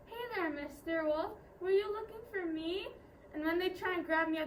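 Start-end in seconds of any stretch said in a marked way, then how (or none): 0.1-2.9 smiling, sweet greeting rising at the end. Acted. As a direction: play it sweetly innocent to the wolf. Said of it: "I'll smile sweetly and say".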